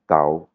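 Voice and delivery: TAO with the sound dropping; "tao" as a low Thai tone; falling tone. Shown as a demonstration. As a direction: let "tao" fall. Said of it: "il tombe, le son, il tombe".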